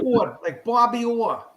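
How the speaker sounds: Ford and Orr said with no R, "Fawd", "Aw"; no R's. Shown as a demonstration. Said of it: "no emphasis on the R's".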